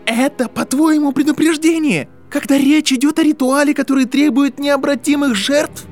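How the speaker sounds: very high, loud furious tirade; full shouting. A narrator's reading. Draco rages at Harry about the ritual, full shouting. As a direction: scream the whole challenge at full pitch. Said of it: "Драко уже кричал".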